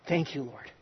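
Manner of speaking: chuckling through the words; laughing thanks. Real, not acted. Pastor telling his congregation, repeating the thanks with a laugh. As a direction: laugh as you thank the Lord.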